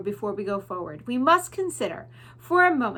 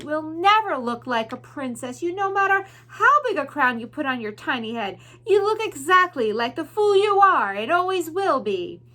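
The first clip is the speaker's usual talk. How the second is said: cruel, rising sneer, louder to the end; mocking villain rat; 5 semitones higher, 6 dB louder than usual. Roscoe the rat insulting Mig, cruel building sneer. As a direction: belittle her, building scorn.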